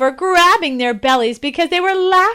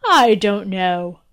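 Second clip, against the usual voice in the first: sorrowful king; 3 semitones lower, slower than usual. Acted. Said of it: "his voice laden with sorrow".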